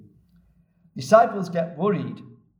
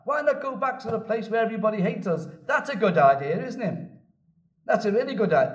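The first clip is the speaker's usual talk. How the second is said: sarcastic cynicism; 4 semitones higher than usual. Retold or imitated. Thomas mocking the plan to return, sarcastic. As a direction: sneer it as a bitter joke. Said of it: "you can hear the sarcasm and the cynicism in his voice".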